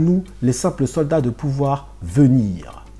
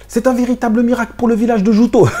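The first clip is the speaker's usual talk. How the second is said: higher, louder proud villager; proud father; 7 semitones higher, 4 dB louder than usual. Acted. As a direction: boast about the miracle. Reads the father's line.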